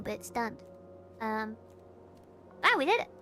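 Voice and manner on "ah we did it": excited cheer. Real, not acted. Sudden success.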